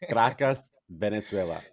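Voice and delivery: put-on lightly accented place-name call; street vendor sound. Co-host repeating the hometown, a hint of street vendor. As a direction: say the city like a street seller, lightly. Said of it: "sound like you're selling chicles down the street".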